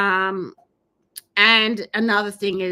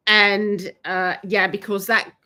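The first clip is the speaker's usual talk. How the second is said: talking through hiccups; hiccuping between words; 4 dB louder than usual. Real, not acted. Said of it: "I've got the hiccups".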